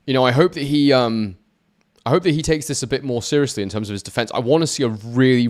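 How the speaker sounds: usual speaking voice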